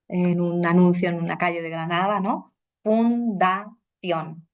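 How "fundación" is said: "Fundación" very slowly as fun-da-ción; three separate syllables. Shown as a demonstration. Teacher dividing a street-sign word, three-syllable "Fundación". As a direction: break "Fundación" into three beats. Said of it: "son tres sílabas".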